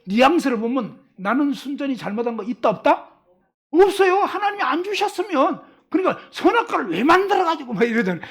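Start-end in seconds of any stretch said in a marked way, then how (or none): 3.7-7.7 high-pitched mock whine of innocence; self-excusing protest. Preacher acting out blame-shifting Adam, protesting innocence. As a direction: dodge all blame, voice pitched up. Acted excuse blaming God.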